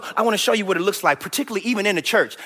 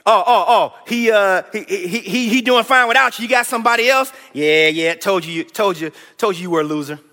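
mocking trash talk. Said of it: "Trash talk like this".

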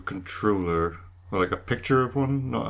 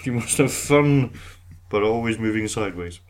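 a hint of the crab controller; 5 dB louder than usual. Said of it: "You and your crabs".

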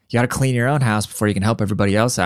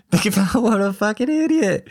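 higher, still laughing in disbelief; incredulous laughing remark; 11 semitones higher than usual. Real, not acted. Host mocking the politician, still laughing in disbelief. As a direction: marvel at the stupidity through laughter. Reacting to the clip.

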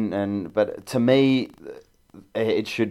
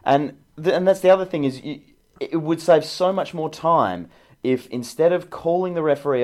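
impassioned; 4 semitones higher than usual. Real, not acted. Fellow pundit arguing against the VAR booth, impassioned. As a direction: argue it with rising passion. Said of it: "good, good passion".

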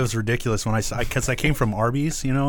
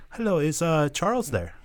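politely imitated phone caller, higher pitched; Sam being nice; 4 semitones higher, 3 dB quieter than usual. Boss phoning an employee's home, retold as sweetly polite. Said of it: "he's real nice on the phone".

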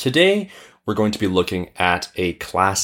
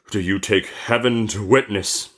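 solemn genie voice; genie demanding an oath. Acted. Genie makes merchant swear to return, stern voice. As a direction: put the oath as a stern challenge. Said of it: "cried the genie".

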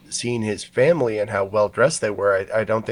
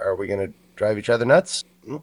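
ordinary talk

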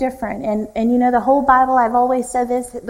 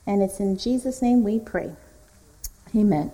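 opening prayer. Acted. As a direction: pray humbly before the teaching.

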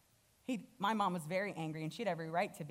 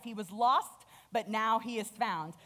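a little louder, ringing out the news; joyful father; 4 dB louder than usual. Acted. Father proclaiming his son's return, joyful. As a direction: announce it gladly to the house. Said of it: "So he's like".

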